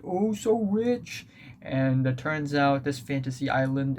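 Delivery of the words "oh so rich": mock sarcastic. Mocking the lucky winners.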